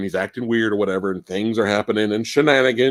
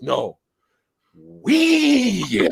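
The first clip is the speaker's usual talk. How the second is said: mock bad De Niro; 5 semitones higher than usual. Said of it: "horrible acting".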